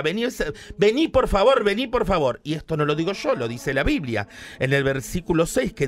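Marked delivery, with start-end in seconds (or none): 0.0-2.4 mock frantic begging; like a crazy woman. Mimicking a frantic woman begging. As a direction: plead like she's lost it. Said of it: "así como loca".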